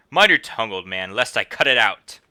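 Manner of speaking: loud, menacing guard; mild mock threat. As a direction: threaten the old man.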